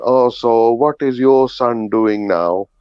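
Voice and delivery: lightly imitated Indian auntie, slow and drawn out; slow auntie small talk, lightly acted. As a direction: mimic a nosy auntie asking, unhurried. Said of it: "And the auntie went".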